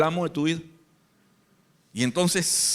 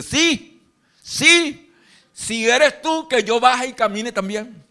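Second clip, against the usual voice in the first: eager Peter; 5 semitones higher, slower than usual. Retold or imitated. Impulsive Peter eager plea.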